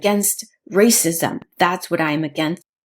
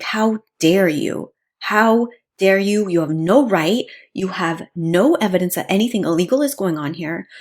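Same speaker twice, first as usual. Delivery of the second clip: mock indignant outburst. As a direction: act out a restrained flash of outrage. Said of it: "I would have lost it".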